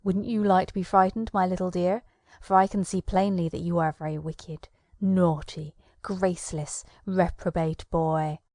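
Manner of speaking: lightly voiced bogeyman teasing the boy; menacing conjurer. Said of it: "said the Powwow man to Tom".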